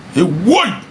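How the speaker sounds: high, sudden exclamation; mock shock. Vlogger reacting to his own warning, mock shocked. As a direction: exclaim in high-pitched disbelief.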